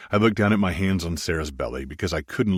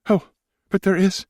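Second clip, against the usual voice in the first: higher woman's voice, firm and sure; 5 dB louder than usual. Acted. Wife firmly insists there is a reason, higher voice. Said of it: "she said firmly".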